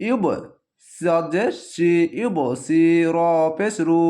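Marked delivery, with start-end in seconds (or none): 0.1-0.2 ইউব with a short echoing bounce on the final ব; qalqalah. Shown as a demonstration. Teacher showing the rule on the letter, qalqalah. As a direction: release the ব of ইউব with a small bounce. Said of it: "তাহলে কলকলা হবে".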